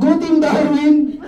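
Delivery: slow, loud, drawn-out team cheer with a laugh; mock cheer. Leader cheering his recruits' team name, slow loud rally cheer.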